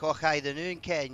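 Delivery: hammed-up Scottish catchphrase; braw Scottish accent. Shown as a demonstration. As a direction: lay on a broad Scottish accent. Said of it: "right good braw Scottish accent".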